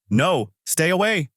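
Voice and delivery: high, slow plea without shouting; understated scream. A narrator's reading. Woman about to be slain by the Ripper, mildly screaming. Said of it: "a woman screams".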